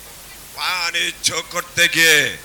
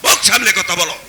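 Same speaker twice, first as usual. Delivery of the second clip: furious booming shout; booming warrior king; 8 semitones higher, 6 dB louder than usual. Acted. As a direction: roar it like a king. Husband silences wife's accusation.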